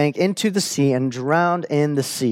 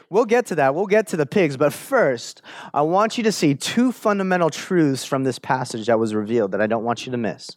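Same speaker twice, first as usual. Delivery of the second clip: ordinary talk, nothing marked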